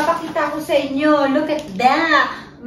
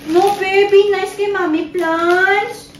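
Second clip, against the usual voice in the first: mock scolding; 6 semitones higher, 3 dB louder, slower than usual. Real, not acted. Telling baby off.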